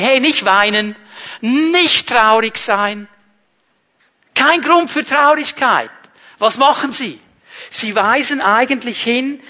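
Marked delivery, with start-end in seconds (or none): 0.0-5.9 gentle comforting. Retold or imitated. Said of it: "zweimal hören die".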